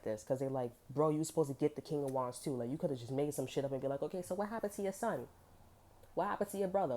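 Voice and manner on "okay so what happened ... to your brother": higher-pitched mock questioning; probing questioning. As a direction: act out pressing someone for answers. Voicing someone questioning another's story.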